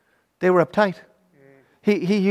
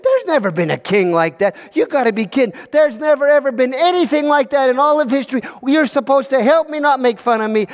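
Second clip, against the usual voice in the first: mildly indignant, pitched-up protest; upset; 4 semitones higher than usual. Acted. Little king thinking his advisors mock him, upset. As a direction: protest as if being mocked. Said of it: "Will got upset".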